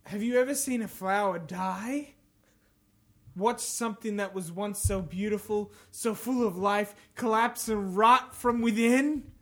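measured, theatrical quote reading; lightly acted menace with long pauses; dramatic villain reading. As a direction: read it like a brooding villain. Reads game villain quotes aloud.

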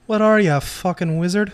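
mock British tough-guy voice, lightly done; shitty put-on British accent. Partner mocking the other in a bad British accent. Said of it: "The last shitty accent I can pull out".

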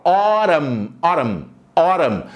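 "Autumn" said as "aw-rum", flapped t and silent n; pronunciation model. Shown as a demonstration. Teacher drills students on saying "autumn". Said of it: "Olha que pronúncia legal".

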